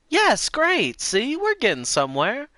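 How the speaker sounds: put-on very high old lady voice. Shown as a demonstration. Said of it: "repeated much higher".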